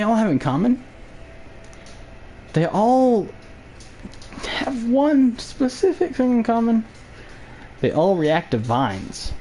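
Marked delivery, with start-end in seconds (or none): 2.5-6.8 dramatic announcer voice. Pretend. Dramatic build-up.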